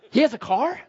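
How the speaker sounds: rising, disbelieving "He has a car?"; incredulous question. Retold or imitated. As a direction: ask it as if you can't believe it. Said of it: "I'm like".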